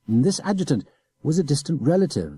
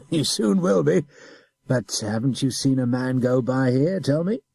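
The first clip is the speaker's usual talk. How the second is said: pressing officer, louder; insistent adjutant; 5 semitones higher, 5 dB louder than usual. A narrator's reading. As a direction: push for the answer.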